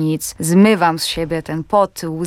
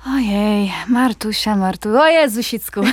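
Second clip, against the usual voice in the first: playful gushing; 4 semitones higher than usual. Acted. Actress playfully greets her character Marta as a friend, gushing. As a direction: coo over a dear friend, hammed-up.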